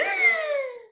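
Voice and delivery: very high, slow stretched-out horror; terrified gasp. Retold or imitated. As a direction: draw it out in shock. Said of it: "I just went".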